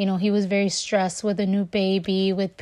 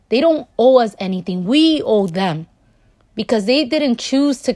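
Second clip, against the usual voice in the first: louder, urgent appeal to mothers; impassioned plea; 2 semitones higher, 5 dB louder than usual. Real, not acted. Speaking straight to mothers listening, impassioned and louder. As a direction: press it home like a rallying call.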